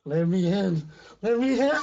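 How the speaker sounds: loud eerie shout; shouted demand. Acted. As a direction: bellow it, loud and menacing. Monster pounding at door.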